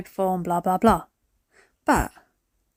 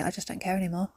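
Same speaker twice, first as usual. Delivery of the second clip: resigned quote; 7 dB quieter, faster than usual. Retold or imitated. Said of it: "where you just say".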